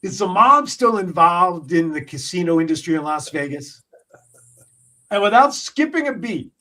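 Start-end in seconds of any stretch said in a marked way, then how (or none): 0.0-3.8 deadpan. Retold or imitated. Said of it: "And Ricky goes".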